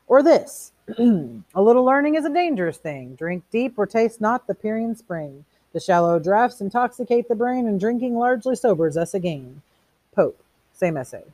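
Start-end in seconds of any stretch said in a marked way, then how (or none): 0.1-9.6 high, loud showman of quotations; declaiming Beatty. A narrator's reading. Beatty quoting Pope at Montag, triumphantly declaiming. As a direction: launch grandly into a recitation.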